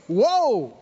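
high, drawn-out exclamations with pauses between; acted astonished delight. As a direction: call out in hammed-up amazement. Acts Jesus exclaiming at the touch.

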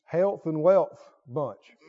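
chuckling through the words; laughing mockery. Real, not acted. Preacher poking fun at the critics, laughing. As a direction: tease the labels with a laugh.

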